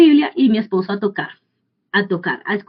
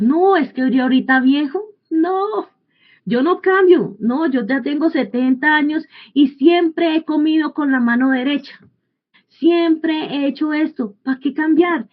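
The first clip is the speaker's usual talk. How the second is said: put-on stubborn old man; 4 semitones higher than usual.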